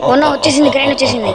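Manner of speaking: high, loud panicked yelp; startled cry. Real, not acted. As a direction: jump out of your skin. Granny suddenly appears in game. (భయంతో గట్టిగా అరుపు)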